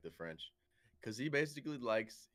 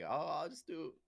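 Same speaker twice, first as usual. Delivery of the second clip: higher-pitched, easygoing put-on voice; mock laid-back Frenchman; 5 semitones higher than usual. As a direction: play a carefree Frenchman shrugging it off. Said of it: "It's just like".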